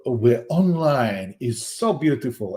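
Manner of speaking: lightly put-on French accent, drawn out. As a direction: read it out with a hint of French. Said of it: "It's very French there".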